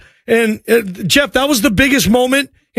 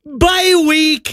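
high, shouted taunting laugh-chant; mock gloating; 5 semitones higher, slower than usual. Host mocking rivals sweating out fantasy playoffs, gleeful shout. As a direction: rub it in, hammed-up gloat. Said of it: "and you're just like".

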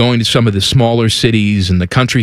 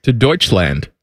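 put-on German accent; 3 semitones lower than usual. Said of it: "my German accent there".

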